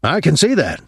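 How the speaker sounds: a touch of nervous haste to agree. A narrator's reading. Colonel facing the father listed as dead, mildly nervous. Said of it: "Bainbridge said nervously".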